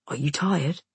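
low, gentle man's voice; reassuring. A narrator's reading. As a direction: reassure a scared child. Soldier settles the boy.

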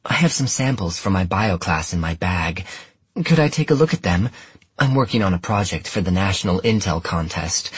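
eager, bright American schoolgirl. Acted. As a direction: gush with bright enthusiasm. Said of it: "She sounded eager, bright".

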